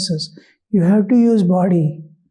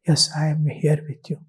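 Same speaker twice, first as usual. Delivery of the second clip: motherly comfort; 3 semitones lower, 6 dB quieter than usual. Retold or imitated. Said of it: "like a mother telling child".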